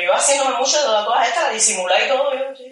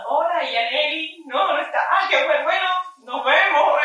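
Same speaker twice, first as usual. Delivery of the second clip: higher, slow, bright-acted greeting with a laugh; mock cheerful greeting; 5 semitones higher, slower than usual. Greeting Yaneli's mother at the door, faked cheerful. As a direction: play it casual to the mother.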